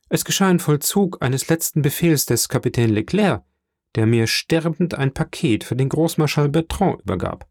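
a hint of an eager officer reporting to his shipowner; dutiful young Dantès, reporting. (leicht angedeuteter junger Seemann, der Bericht erstattet)

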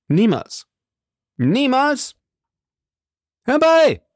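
high, escalating cry of defiance; shouting. A narrator's reading. Duke refuses to sign and calls his men, shouting high. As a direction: refuse outright, building to a loud call for help. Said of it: "schrie der Herzog".

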